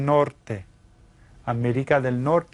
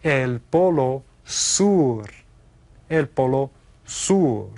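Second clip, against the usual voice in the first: slow model phrase; slower than usual. Shown as a demonstration. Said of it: "Did you say".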